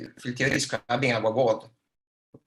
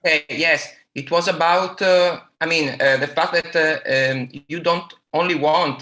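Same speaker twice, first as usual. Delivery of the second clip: slightly louder and a little higher; speaking up; 3 semitones higher, 4 dB louder than usual. Real, not acted. Questioner repeating his point after being asked to speak louder, speaking up. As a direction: raise your voice a little to be heard. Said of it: "if you speak louder, uh, it would be better".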